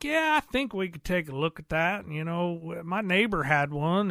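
lightly put-on Southern hillbilly drawl. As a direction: play an unsure shop guy with a touch of Southern drawl. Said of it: "putting a Southern hillbilly drawl on there".

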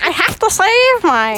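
slow, laughing nerdy voice; nerd voice. Retold or imitated. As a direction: nerd impression through laughter. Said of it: "the best nerd voice I've ever seen".

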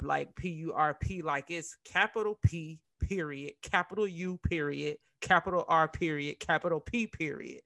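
letter by letter, with pauses; spelling it out. Shown as a demonstration. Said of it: "it's not just written Perp".

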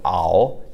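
"ao" with a bit of frogginess at the end; froggy ao. Shown as a demonstration. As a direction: close "ao" on a froggy o. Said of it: "add a bit of frogginess at the end".

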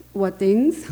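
quoting the misheard question through a laugh; laughing retelling. Retold or imitated. The speaker tells the audience the misheard airport question while laughing. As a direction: she laughs as she repeats what she thought she heard.

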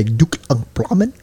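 slow fake German that sounds Vietnamese; mock German. Shown as a demonstration. Host demonstrating German for friend, botched accent. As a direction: attempt a choppy German accent, slowly. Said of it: "So that sounds Vietnamese".

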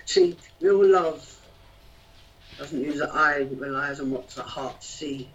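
measured rhythmic poem recital; spoken word poetry. Acted.

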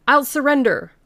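high, loud cry of surrender. Acted. Stranger pinned by constable, crying out loud surrender. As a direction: throw the words out, giving up. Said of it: "cried the stranger".

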